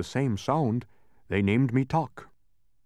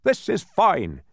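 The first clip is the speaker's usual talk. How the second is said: loud, high delighted discovery; exultant outburst, drawn out at the end; triumphant cry; 9 semitones higher, 7 dB louder, slower than usual. A narrator's reading. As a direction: cry out on finding it. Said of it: "he cried triumphantly".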